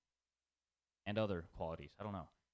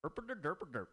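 mock gibberish; 6 semitones higher than usual. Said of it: "And the Indian part".

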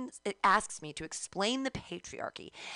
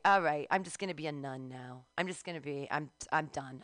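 low, subdued giving-up voice; mock resignation; 5 semitones lower, 3 dB quieter than usual. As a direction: give up, dropping low and soft. Acts out giving up on men.

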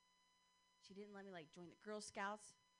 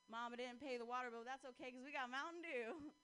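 put-on lightly done country accent. Girlfriend obliging her boyfriend's request, light country accent. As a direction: say it with a country twang. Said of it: "like, in a country accent".

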